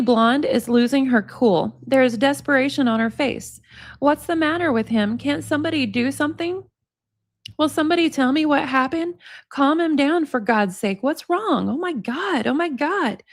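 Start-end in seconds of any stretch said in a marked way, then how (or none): 4.0-13.2 high, pleading panic; desperate panic. Acted. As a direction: beg someone to help, panicking. Panicked blonde's desperate pleas.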